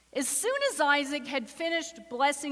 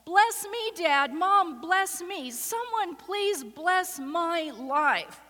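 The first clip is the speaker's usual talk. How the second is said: high, louder, slow pleading; child's cry; 3 semitones higher, 3 dB louder, slower than usual. Retold or imitated. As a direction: cry out like a child wanting love. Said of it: "You can hear the cry of a child".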